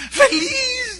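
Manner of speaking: a high, crying "Feliz" as the woman's voice breaks; tearful joy. Retold or imitated. Woman telling her pastor she is happy, crying high.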